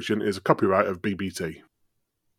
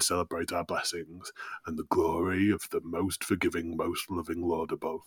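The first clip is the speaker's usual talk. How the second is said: softer, measured reverence, lightly acted; pious settler; 2 semitones lower, 5 dB quieter than usual. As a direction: bless the feast like a devout pilgrim. Pious Jim blesses the feast.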